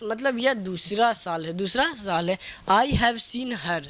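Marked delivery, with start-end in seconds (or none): 2.7-3.9 dictation pace. Shown as a demonstration. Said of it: "dictating the example again".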